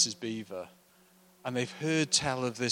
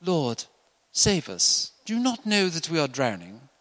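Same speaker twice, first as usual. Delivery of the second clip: louder, urgent plea to be saved; desperate cry; 4 semitones higher, 8 dB louder than usual. Retold or imitated. Disciples crying to Jesus in the storm, louder plea. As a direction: cry out for rescue over the storm. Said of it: "when they woke Jesus".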